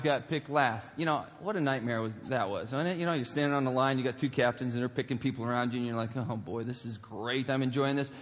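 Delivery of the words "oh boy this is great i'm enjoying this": sarcastic. Retold or imitated. Sarcastic thought waiting to be picked.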